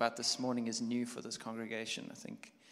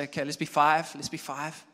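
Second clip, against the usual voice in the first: playful; 3 semitones higher, 8 dB louder than usual. Shown as a demonstration. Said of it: "Just say".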